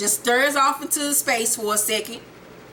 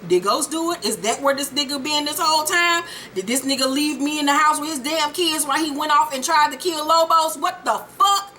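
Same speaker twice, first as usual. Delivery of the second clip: mock disbelief, pitch climbing as it goes; incredulous inner rant; 4 semitones higher than usual. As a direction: voice her outraged thoughts, building to the end. Voicing character's incredulous thoughts.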